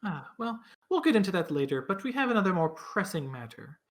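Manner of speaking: put-on weary old townswoman; tired old voice. Olivessa explains the election.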